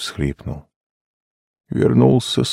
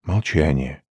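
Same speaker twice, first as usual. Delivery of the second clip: plain reading voice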